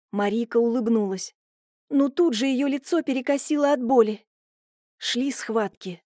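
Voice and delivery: ordinary talk, nothing marked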